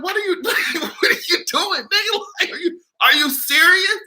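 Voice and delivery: high, incredulous mock voice with a laugh; mocking disbelief. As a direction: mimic people online asking what he's doing. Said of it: "They're like".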